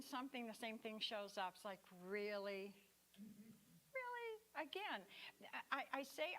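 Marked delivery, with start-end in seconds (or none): 2.0-5.1 rising squeal of disbelief on the second really; mock exasperation. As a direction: ham up the fed-up surprise.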